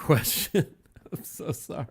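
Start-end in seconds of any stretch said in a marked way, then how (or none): 1.1-1.8 soft whispered apology. Real, not acted. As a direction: whisper it sheepishly. Apology muttered after losing track.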